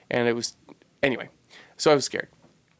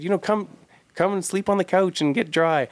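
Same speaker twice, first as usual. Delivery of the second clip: kind invitation; 7 semitones higher than usual. Retold or imitated. Mother voiced inviting him inside.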